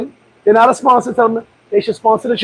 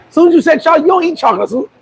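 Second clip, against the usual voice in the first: excited; 6 semitones higher, faster than usual. Real, not acted. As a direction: tease him, voice pitched up. Excited teasing recount.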